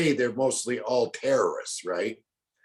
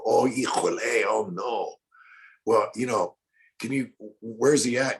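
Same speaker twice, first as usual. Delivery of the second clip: posing as Pedro. Retold or imitated. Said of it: "This is Pedro".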